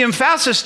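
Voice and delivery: "emphasis" as em-FASS-is; shifted word stress. Shown as a demonstration. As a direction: hit the middle syllable of "emphasis". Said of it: "when you change the emphasis".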